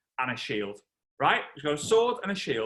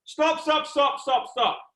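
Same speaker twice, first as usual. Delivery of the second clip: high, loud shout, easing off; commanding cry over the arena; Julius Caesar; 11 semitones higher, 6 dB louder, much slower than usual. Acted. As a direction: call a sudden halt. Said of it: "Julius Caesar all of a sudden goes".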